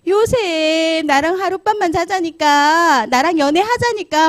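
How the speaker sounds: high, loud, drawn-out whining plea; clinging pleading. Retold or imitated. Master's wife grabs Joseph's clothes, clinging and pleading. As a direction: beg him, stretching out every phrase. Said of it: "막 매달리는 거예요".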